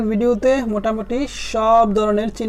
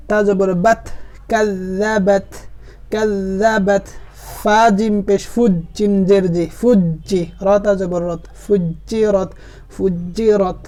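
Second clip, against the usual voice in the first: measured, syllable-by-syllable Arabic spelling recitation; Qaida spelling drill. Shown as a demonstration. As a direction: spell each letter, then join the word deliberately. (কায়দার বানান করে টেনে টেনে পড়া)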